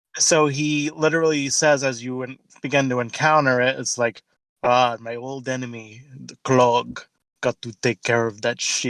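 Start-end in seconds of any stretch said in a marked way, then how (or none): 4.7-8.9 poor, fake put-on Finnish accent. Retelling what a telepath character says on reaching the area, bad Finnish accent. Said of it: "I'm not doing uh, the Finnish accent very well".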